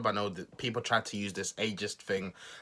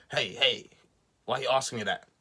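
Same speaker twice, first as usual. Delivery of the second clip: lightly acted indignant comeback; mock indignant reporter retort; 3 semitones higher than usual. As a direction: retell it as a mildly affronted reply, no real accent. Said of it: "I can't do accents".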